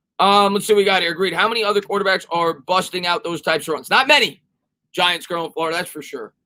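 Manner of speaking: ordinary delivery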